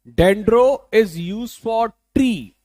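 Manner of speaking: dendro stretched out, words very slow; very slow teacher drill. Shown as a demonstration. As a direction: hammer it home slowly. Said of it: "Dendro is used for trees".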